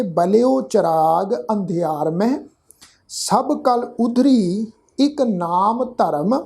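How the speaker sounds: slow, measured verse reading with drawn-out vowels; scripture recitation. Shown as a demonstration. Teacher modelling the verse for congregation, slow measured recitation. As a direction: recite word by word, lingering on long syllables.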